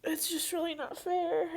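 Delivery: high, tearful and breaking; words pushed through tears; crying. Real, not acted. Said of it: "stop crying now".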